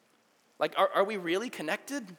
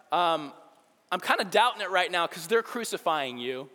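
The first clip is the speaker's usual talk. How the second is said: a hint of a sneering taunt, louder; lightly voiced scoffing criminal; 3 semitones higher, 4 dB louder than usual. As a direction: taunt him with mock doubt. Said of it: "he scoffed at Jesus".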